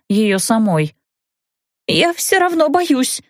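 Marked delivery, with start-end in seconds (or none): 1.9-3.2 put-on much higher, slow, small girl's frightened whine; scared childlike voice. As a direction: whimper like a little girl. Childlike woman still afraid.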